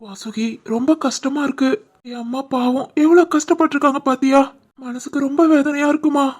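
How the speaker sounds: soft tearful voice, close to sobbing; weeping to his wife over his mother; crying softly. Acted. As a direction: speak through tears, grieving his mother. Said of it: "அழுதுகிட்டு இருக்க".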